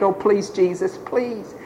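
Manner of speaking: lightly acted plea, softening on the last word; understated imitation of begging. Healed man begs Jesus, mildly pleading. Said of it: "he begged".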